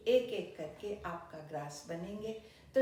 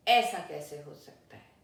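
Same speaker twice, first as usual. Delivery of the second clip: much louder, lower angry lion roar; furious roar; 3 semitones lower, 9 dB louder than usual. A narrator's reading. Lion roaring at the rabbit about the rival king, furious. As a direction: bellow it in outrage. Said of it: "जोर से दहाड़ा".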